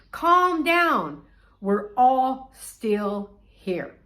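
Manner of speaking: high, loud call that slows right down. Acted. Paul telling the guard all are still here, calling out. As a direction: call out high, then slow for the reassurance.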